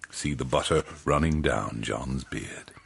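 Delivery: soft breathy aside, holding back a laugh; whispered aside. A narrator's reading. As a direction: whisper it to the audience.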